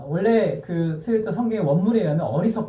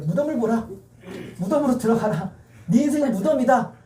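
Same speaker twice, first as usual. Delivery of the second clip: higher, declaimed commands; lightly voiced devil; 5 semitones higher than usual. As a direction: press the doom on the listener. Preacher acts out devil's taunting commands.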